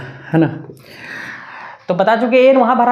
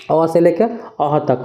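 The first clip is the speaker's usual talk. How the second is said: slow recitation; 3 semitones lower, much slower than usual. Shown as a demonstration. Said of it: "teacher reciting vowels".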